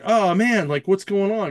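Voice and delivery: mock panicked crew. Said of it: "they're like".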